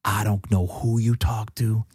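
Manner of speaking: slow imitated Michigan accent. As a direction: drag out the dismissal in a put-on Michigan accent. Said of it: "a very classic Michigan accent".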